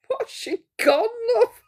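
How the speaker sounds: laughing. Real, not acted. Repeats it laughing.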